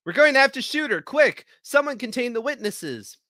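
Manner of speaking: frantic shouted command; urgent shout. Acted. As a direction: bark the order in a panic. Urgent order from ruined building.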